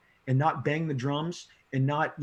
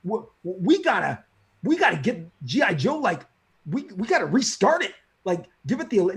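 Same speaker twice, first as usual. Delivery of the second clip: stammering, louder, urgent; hyped-up stammer about restarting the book; fired up; 3 semitones higher, 4 dB louder than usual. Retold or imitated. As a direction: push to restart the series now. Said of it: "That's what I'm like".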